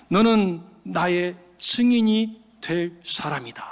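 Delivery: slow, hushed whisper. Acted. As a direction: breathe it like a voice in a dream. Divine voice in dream. (꿈속 목소리가 속삭이듯)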